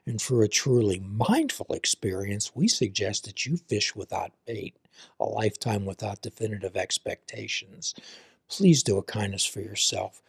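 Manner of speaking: calm, measured host outro; podcast sign-off. Acted. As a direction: read the closing like a warm blessing. Host closing sign-off read.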